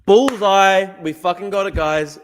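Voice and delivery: loud, high triumphant cheer; excited cheer. Real, not acted. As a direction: celebrate the perfect hit with chat. Perfect guess on stream.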